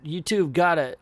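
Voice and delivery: put-on "You two've gotta" in a southern accent that has drifted; first southern take. Caretaker's first try at the line, in a southern accent. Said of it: "I changed the southern accent up a little bit here".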